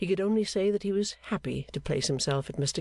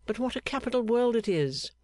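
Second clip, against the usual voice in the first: a lifted, eager exclamation, mildly raised; enthusiastic cry; 8 semitones higher than usual. A narrator's reading. Gowan to Clennam, warmly enthusiastic cry. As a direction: Gowan cheerfully praising the world to Clennam. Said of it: "cried Gowan with warm enthusiasm".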